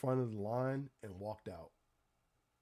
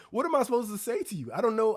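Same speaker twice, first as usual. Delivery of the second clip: exasperated; 8 semitones higher, 7 dB louder than usual. Real, not acted. Exasperated rant at cashier.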